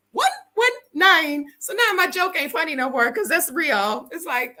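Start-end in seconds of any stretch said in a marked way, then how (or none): 0.1-1.4 laughing disbelief. Real, not acted. Realizing the joke is real.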